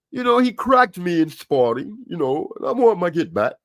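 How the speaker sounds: lightly attempted English accent; horrible English accent. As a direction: do a badly faked English accent. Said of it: "I know that's a horrible English accent".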